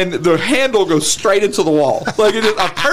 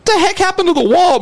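high-pitched mock-mom demand; raised, incredulous parent voice; imitated shocked mom; 9 semitones higher than usual. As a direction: demand an answer like an appalled mother. Imitating mom finding the hole.

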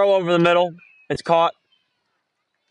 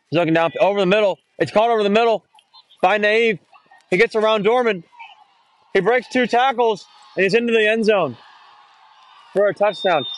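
pitched up and pushing the run call; excited play-by-play; 7 semitones higher than usual. Real, not acted. Commentator calling a breakaway run to listeners, excited. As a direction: ride the run as he breaks tackles. Calling a touchdown pass live.

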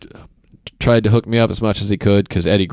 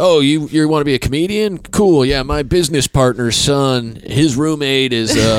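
eager name-dropper; 5 semitones higher than usual. Retold or imitated. Quoting a name-dropping dad.

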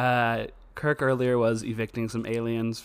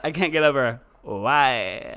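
imitating Christopher Smith; 3 dB louder, slower than usual. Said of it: "as Christopher Smith would say".

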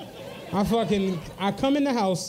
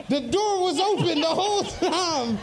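slow, laughing it out at his own mistake; 5 semitones higher, slower than usual. Real, not acted. Friend laughs while telling the story about the open door. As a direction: chuckle through the punchline.

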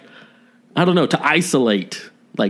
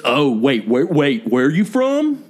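mock snooty patriot. Mocking exclusionary patriot voice.

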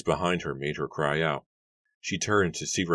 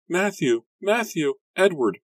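very high, loud calls for help; a sister calling the brothers from the doorway, high and loud; frantic shout; 5 dB louder than usual. A narrator's reading. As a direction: yell across the house in panic.

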